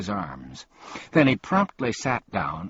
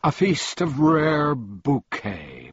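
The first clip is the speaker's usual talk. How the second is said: announcing; 6 semitones higher, slower than usual. A narrator's reading. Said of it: "he announced".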